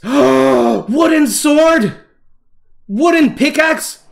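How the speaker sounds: gasping, drawn-out delight; excited discovery. Real, not acted. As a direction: marvel at a brand-new find. Thrilled discovering new items in game.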